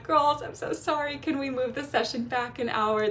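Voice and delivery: a hint of a sheepish apology to the girls; mildly voiced apologetic note. Retold apology post to students.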